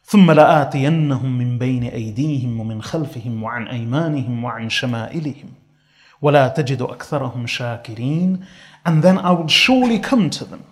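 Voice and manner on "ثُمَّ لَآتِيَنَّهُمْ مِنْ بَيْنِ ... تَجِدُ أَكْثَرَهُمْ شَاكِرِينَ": Quran recitation. Acted. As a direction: chant the verse in measured tajweed.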